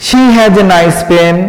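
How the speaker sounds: very slow, word by word; slow dictation. Shown as a demonstration. Teacher dictating the sentence slowly to students. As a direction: spell out every word for the notes. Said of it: "এখন কি হয়ে গেল".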